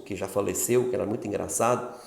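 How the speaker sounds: usual speaking voice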